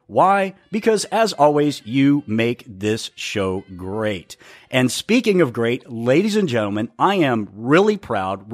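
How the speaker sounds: measured, emphatic announcer delivery; show host introduction. Acted. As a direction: welcome the listeners like a proud show host. Host's formal show opening.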